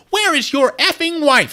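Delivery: high, loud, slow mock scream of the question; hammed-up screaming demand. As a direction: shriek it like a jealous lover. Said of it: "she goes".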